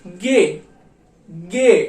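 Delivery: गे with a hard g, like gay; German G. Shown as a demonstration. Teacher drilling the German G for students. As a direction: repeat गे slowly and clearly. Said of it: "जिसको हम pronounce करते हैं गे".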